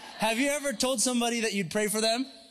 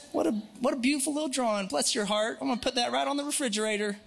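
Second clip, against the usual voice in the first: higher, quick, lightly put-on Southern voice; old Southern accent; 4 semitones higher, faster than usual. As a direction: gush with a mock Southern accent. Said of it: "with an old Southern accent".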